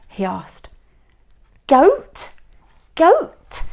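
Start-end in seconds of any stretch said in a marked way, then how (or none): 1.7-2.3 surprised. A narrator's reading. Hank appalled at goat stew. 3.0-3.6 surprised. A narrator's reading. Hank appalled at goat stew.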